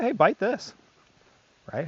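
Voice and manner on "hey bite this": higher and louder, upbeat play call; playful invitation. Retold or imitated. Handler offering a toy to the dog, higher and playful.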